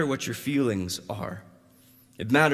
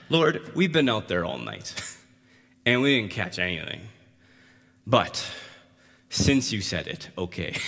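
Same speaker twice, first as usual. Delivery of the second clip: reluctant giving-in with long pauses; mildly grumbling Peter, halting between phrases; begrudging; 3 semitones lower than usual. Acted.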